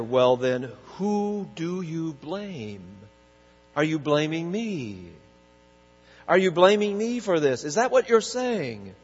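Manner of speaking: the grieving mother turns on the pastor in anger; angry mother. Retold or imitated. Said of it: "She said in anger".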